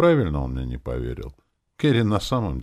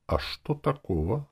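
high, mildly indignant comeback; indignant demon; 9 semitones higher than usual. A narrator's reading. Demon defends herself to the hero, mildly indignant. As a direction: protest it in a high voice. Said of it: "возмутилась она".

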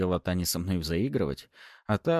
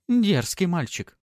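slow, higher amused tease; teasing; 11 semitones higher, 4 dB louder, slower than usual. A narrator's reading. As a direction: purr it playfully. Noblewoman teasing Maxim.

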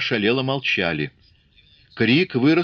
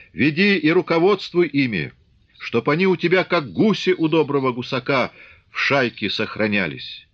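higher, earnest elder's instruction; old man's blessing; 5 semitones higher than usual. Acted. Old Cossack blesses Grigory before the crowd, earnest. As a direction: bless and instruct him like a grandfather.

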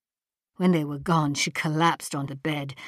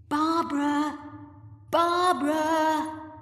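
much higher drawn-out call; 11 semitones higher, much slower than usual. A narrator's reading. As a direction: call her name across the cave. Calling into the cave.

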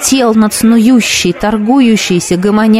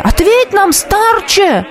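higher, demanding yell; crowd yell; 11 semitones higher, slower than usual. Acted. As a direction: shout back at the seer. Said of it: "заорали ему в толпе". (выше, требовательный крик)

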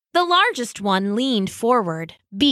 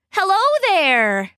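high, wobbly attempt at singing; awkward warble; 9 semitones higher, 3 dB louder than usual. A narrator's reading. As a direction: try to sound musical and wobble. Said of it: "landing instead on an awkward warble".

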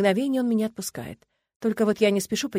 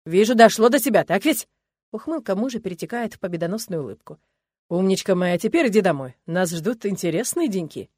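louder, triumphant and smug; gloating husband; 4 dB louder than usual. Acted. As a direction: savour his victory over her. (торжествующий муж, самодовольно)

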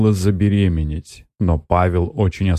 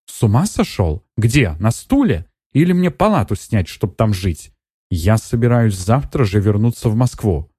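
higher, incredulous scoff; mock the very idea; scoffing indignation; 4 semitones higher than usual. Netta scoffs at staying overnight. (Нетта возмущённо отмахивается от Аркадия, выше голосом)

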